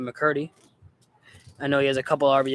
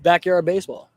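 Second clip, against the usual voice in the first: yawning; 2 semitones higher, 5 dB louder than usual. Real, not acted. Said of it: "Sorry, I yawned".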